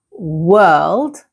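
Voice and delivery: world with the R and L sounded together; careful model world with rising end, R blending into L. Shown as a demonstration. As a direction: draw out world, R running into L. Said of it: "pronounce the R and the L together".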